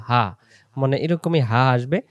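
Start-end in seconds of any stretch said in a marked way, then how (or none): 0.1-0.2 হা like a sudden casual exclamation; light breathy throat sound. Shown as a demonstration. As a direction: say হা as if startled mid-task. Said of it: "হঠাৎ করে বলে ফেলি হা".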